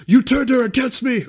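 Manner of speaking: hammed-up squeaky accusation; whiny Anakin impression. Anakin shouting at Obi-Wan, in a squeaky mock whine. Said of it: "Anakin is just like".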